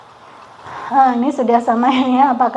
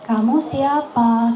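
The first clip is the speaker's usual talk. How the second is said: gentle low tone; slower than usual. Shown as a demonstration. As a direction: ask yourself tenderly, slowly. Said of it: "pakai nada lembut, nada yang paling rendah".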